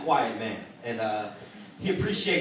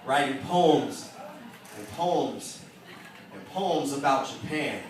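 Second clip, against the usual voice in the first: spoken word poem; 2 semitones higher than usual. Acted. Poet afraid of losing his family's language, heartfelt spoken word. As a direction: recite it as heartfelt slam poetry.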